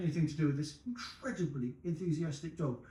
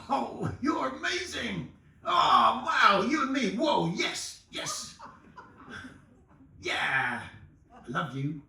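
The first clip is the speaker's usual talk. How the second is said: high, gushing overjoyed dog voice; overexcited dog; 8 semitones higher, slower than usual. Retold or imitated. Dog gushing at a stranger, overjoyed and high. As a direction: gush at strangers like a giddy dog. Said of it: "I'm translating, that's what it would do to strangers".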